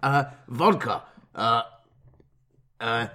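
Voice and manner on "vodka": attempted Russian accent.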